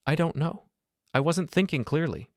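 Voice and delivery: high-pitched, cornered and pleading; distressed wife. A narrator's reading. Crying wife cornered by questions.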